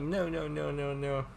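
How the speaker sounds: high quick no's, pushing it away; person saying no. Pretend. Teacher voices the stroke as a person refusing, high. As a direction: brush it off with a row of light no's. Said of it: "It's like".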